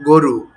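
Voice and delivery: "গরু" as goru, first vowel rounded o; spoken form. Shown as a demonstration. Teacher returns to everyday speech, "গরু" with closed o. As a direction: say "গরু" with go, not gaw. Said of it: "এমনভাবে বলি যেন গো".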